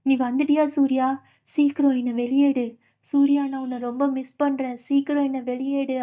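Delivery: eerie pleading spirit voice; a trapped soul begging Surya to free it; spooky spirit in a jar calling Surya. Retold or imitated. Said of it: "அந்த ஜாடி மறுபடியும் பேச ஆரம்பிக்குது".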